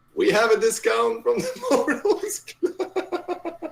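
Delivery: really loud, very high, out-of-tune voice. Voicing a magical illusion of a voice at a stall: out of tune, really loud voice. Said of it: "out of tune, really loud".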